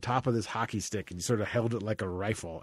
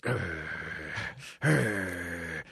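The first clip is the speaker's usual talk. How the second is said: dog growl; 5 semitones lower, 5 dB quieter than usual. Retold or imitated. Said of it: "would, like, growl and be like".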